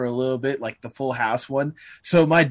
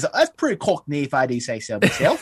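mock British accent. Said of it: "had to say something like".

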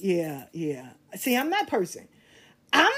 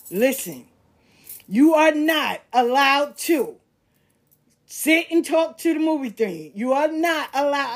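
lecturing ex; 3 semitones higher, 5 dB louder than usual. Retold or imitated. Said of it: "he gave me a whole speech".

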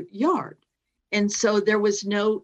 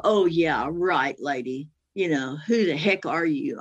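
lower, dismissive retort; mildly scornful disbelief, pitched down; retold cocky; 5 semitones lower than usual. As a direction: brush the caller off, cockily. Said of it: "I was really cocky".

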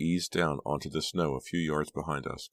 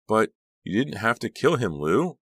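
distraught outcry; 8 semitones higher, 7 dB louder than usual. A narrator's reading. Ava accusing her husband.

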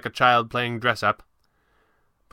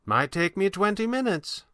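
put-on high, lightly amused old magician; playful, high-pitched understatement; gently amused; 10 semitones higher than usual. A narrator's reading. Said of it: "gently amused".

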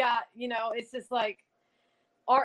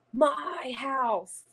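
lightly imitated ghostly man, drawn out; a hint of a deep, raspy spirit voice; 2 semitones higher than usual. Recorded man claiming the funeral home, deep and raspy. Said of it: "this man with this really deep voice".

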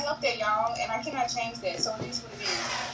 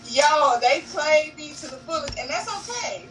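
laughing through it; 3 semitones higher than usual. Real, not acted. Laughing while recalling the intro.

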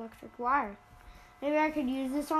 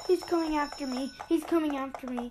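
scared; 3 semitones higher, 4 dB louder than usual. Real, not acted. Chased by enemy in game.

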